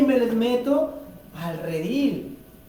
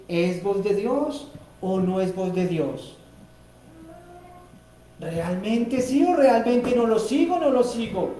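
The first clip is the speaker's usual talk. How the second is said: softer, wavering questions; doubtful questioning; 2 semitones lower, 3 dB quieter than usual. Acted. Believer asking himself if it is God's voice, unsure. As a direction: weigh it aloud, unsure. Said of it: "y decir".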